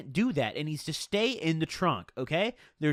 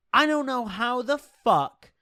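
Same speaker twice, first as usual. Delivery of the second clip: high, drawn-out mock panic; retold freak-out; 7 semitones higher, 4 dB louder, slower than usual. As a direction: act out freaking out, slow and high-pitched. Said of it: "I was literally freaking out".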